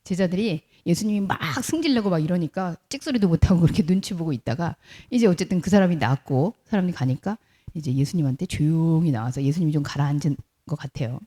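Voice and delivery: ordinary delivery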